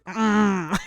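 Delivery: playful monster noise; Frankenstein's monster groan. Acted. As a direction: agree with a monster's grunt, half-laughing. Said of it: "like I was Frankenstein there".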